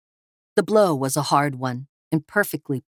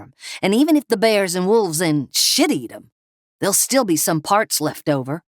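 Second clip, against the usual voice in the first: nervous thug; 2 semitones higher than usual. Acted. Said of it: "Cliff, said to him".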